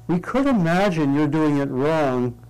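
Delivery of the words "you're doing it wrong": slow and unhurried, no edge in it; without harshness. Shown as a demonstration. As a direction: correct them gently and slowly. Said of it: "perhaps without reactivity or harshness".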